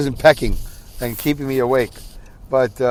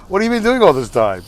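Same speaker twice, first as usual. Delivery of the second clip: higher-pitched, acted amused disbelief; laughing-so-hard voice; 5 semitones higher than usual. Brother finding sister's neglect ridiculous, pretend laughing. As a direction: pretend it's too ridiculous to take seriously. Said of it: "I'm laughing so hard".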